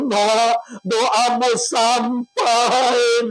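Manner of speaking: lightly voiced old mother, tender and slow; a hint of an old mother thanking her child; voice of the dead mother. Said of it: "dia membisikkan ke telingamu seraya mengatakan".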